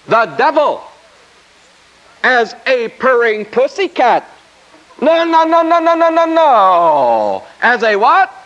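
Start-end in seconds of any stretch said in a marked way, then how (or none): 5.0-7.4 loud, high string of nos; rising then dropping no no no; emphatic no. Real, not acted. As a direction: shoot the wrong answer down hard. Preacher rejects a wrong answer.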